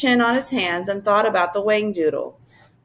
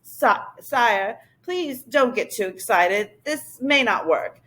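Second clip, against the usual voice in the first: cautioning. Acted. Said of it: "the professor cautioned".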